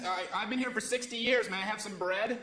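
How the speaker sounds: a lightly voiced hungry islander; mock starving local. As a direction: beg for bread in a put-on voice. Voicing starving local resident.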